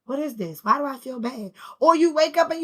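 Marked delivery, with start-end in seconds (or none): 0.0-1.5 puzzled murmur. Retold or imitated. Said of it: "you just feel like".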